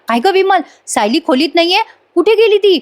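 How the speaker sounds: retold husband's anxious questions; worried asking. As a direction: ask fast, fearing the worst. Husband alarmed wife missing.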